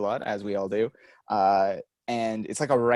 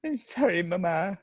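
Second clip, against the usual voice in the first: put-on much higher, whiny little-kid sorry; mock apology; 8 semitones higher than usual. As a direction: echo the joke as a pleading child.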